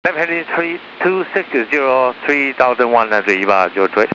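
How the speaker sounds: pilot over the radio. Real, not acted. Pilot reads back on radio.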